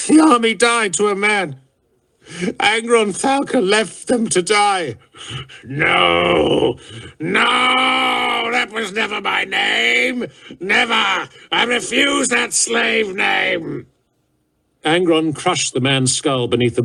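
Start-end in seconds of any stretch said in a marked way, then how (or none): 0.1-5.0 a high, tearful terrified voice; frightened whine. A narrator's reading. Captured officer whimpering the old story to his captor. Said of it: "The officer cried out". 5.6-13.9 high, crying, shouted rage; furious denial. A narrator's reading. Enraged warlord shouting down the name he was given. Primarch raging at hated name.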